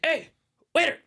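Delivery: high-pitched imitation of a rowdy customer; loud drunk homie. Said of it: "that fool was just being loud as shit".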